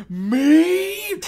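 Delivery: squealed high, loud mock-panicked me. Friend mocking Emu's overreaction, shrieking high. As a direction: ham up a terrified squeak.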